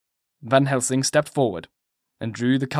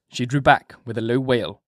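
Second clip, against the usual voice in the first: ordinary delivery, nothing marked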